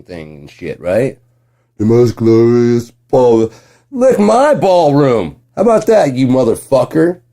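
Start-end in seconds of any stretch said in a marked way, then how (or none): 1.8-7.2 taunting. Real, not acted. Taunting the president.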